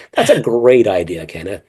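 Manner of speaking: sugary, professional meeting agreement; lightly acted office politeness; polite meeting voice. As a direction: put on the nice Zoom-call voice. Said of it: "that's how I would sound".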